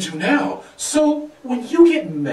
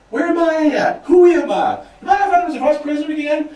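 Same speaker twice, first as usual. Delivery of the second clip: confused waking napper; 7 semitones higher, faster than usual. Acted. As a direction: startle awake and babble in confusion. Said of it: "You fall asleep for five minutes".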